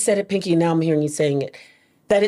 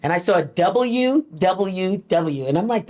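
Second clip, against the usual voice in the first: usual speaking voice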